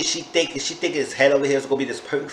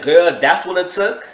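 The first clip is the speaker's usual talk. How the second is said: raised, louder, drawn-out question; incredulous; 5 semitones higher, 6 dB louder than usual. Retold or imitated. Reviewer questioning the woman's reason, incredulous. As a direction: stretch it out in high disbelief. Retold disbelief at her falling.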